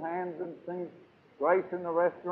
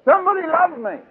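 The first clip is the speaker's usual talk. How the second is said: mock plea; 11 semitones higher, 7 dB louder than usual. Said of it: "it's called".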